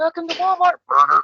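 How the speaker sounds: put-on shrill, very high little old lady voice. Picturing a little old lady greeting customers at Walmart: little old lady voice. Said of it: "some little old lady going".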